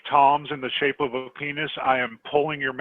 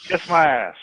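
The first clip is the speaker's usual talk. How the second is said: mock quote of her; 3 semitones higher, 5 dB louder than usual. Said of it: "She said".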